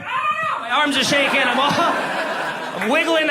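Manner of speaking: Kermit the Frog panic. Retold or imitated. Panicking comedian yelps like Kermit the Frog. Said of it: "I turn into Kermit the Frog".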